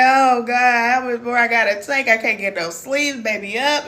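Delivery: tired mom. Retold or imitated. Mimicking a sleepless new mother's complaint, mild groan. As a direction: sigh it out like an exhausted new mother. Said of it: "And you sit up there like".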